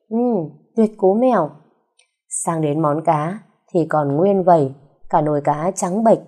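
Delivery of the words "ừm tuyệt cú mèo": slow, higher, forced compliment over tough food; forced praise. Acted. Husband forcing praise for wife's cooking, slow and strained. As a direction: praise it through gritted teeth. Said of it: "giơ tay khen ngợi".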